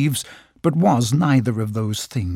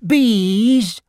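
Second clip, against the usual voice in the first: much higher and louder, calling out; calling cry; 9 semitones higher, 3 dB louder than usual. Acted. Pooh calling to the bees to come home, loud call. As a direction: call them home across the bush.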